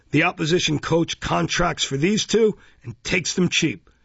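pompous bellowing beadle. Acted. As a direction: lecture her like a pompous official.

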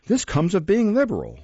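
high-pitched, self-pitying sigh of virtue; pious lament. A narrator's reading. Mistress lamenting her own generosity, pious. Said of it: "piously raising her eyes".

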